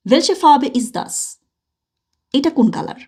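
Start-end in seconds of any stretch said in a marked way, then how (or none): 0.1-1.4 slow, clear German question; slow teacher question. Shown as a demonstration. Teacher quizzing the class on colours, slow. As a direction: ask "Welche Farbe ist das?" slowly for beginners. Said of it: "asks class in German".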